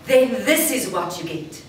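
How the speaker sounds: open, full voice, opened up to the crowd; bigger voice. Shown as a demonstration. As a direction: open out and draw them in. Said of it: "I have my ordinary speaking voice and I want to make it bigger".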